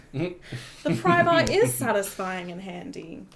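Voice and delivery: gentle parenting voice. Retold or imitated. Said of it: "I don't feel like that's gentle".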